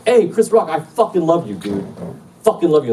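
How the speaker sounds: put-on high drunken fan yell; loud, unsubtle. Shitty drunk birthday boy to Chris Rock, high gushing yell. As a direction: holler your love at a celebrity across the room. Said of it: "Loud, not subtle".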